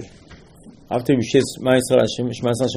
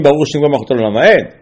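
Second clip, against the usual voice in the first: a louder, fast proclaimed blessing; hammed-up shout of the blessing; mock scream; 4 dB louder, faster than usual. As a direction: call it out as if you were an angel. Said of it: "The man is going to scream".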